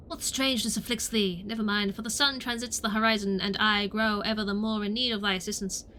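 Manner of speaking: put-on lightly theatrical old-English orator; mock-formal olden-days delivery; archaic speaker. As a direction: declaim it like a stage thespian. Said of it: "Why did you start talking like this?".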